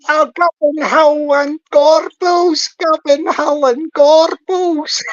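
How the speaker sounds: slow, loud mocking imitation of a beaten man; mocking whine. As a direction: drag it out like a sore loser. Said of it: "when you go".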